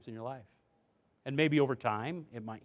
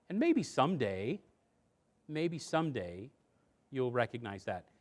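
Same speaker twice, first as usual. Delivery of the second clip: calm firm parent. Shown as a demonstration. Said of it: "what you say are things like".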